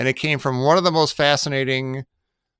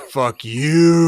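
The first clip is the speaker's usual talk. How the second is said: laughing; 6 dB louder than usual. Pretend. Ends chain, laughing.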